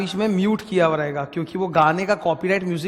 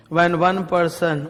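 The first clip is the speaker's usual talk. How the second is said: very slow, word-by-word dictation; parrot-style recitation; much slower than usual. Shown as a demonstration. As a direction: recite it for a class to memorise. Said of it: "थोड़ा सा तोता मारते हैं".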